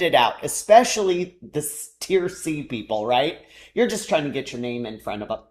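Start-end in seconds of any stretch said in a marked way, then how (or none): 3.7-5.4 talking through hiccups; hiccuping between words. Real, not acted. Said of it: "I've got the hiccups".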